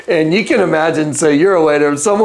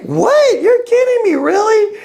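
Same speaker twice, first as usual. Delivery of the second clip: stunned. Retold or imitated. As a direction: react in pure astonishment. Hearing the cancer is gone.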